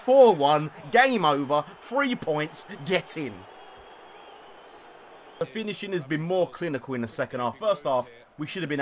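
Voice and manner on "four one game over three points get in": triumphant call. Real, not acted. Celebrating the win.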